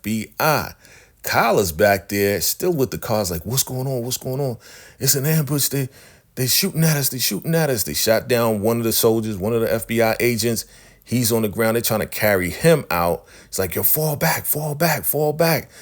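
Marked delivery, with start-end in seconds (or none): 3.5-7.8 lightly acted alarm, pitched up; mock alarm. Acted alarm during an ambush. 13.8-15.7 high-pitched retold retreat call; acted urgency, pitched up on each repeat; mock urgent order. Acted order to retreat under fire.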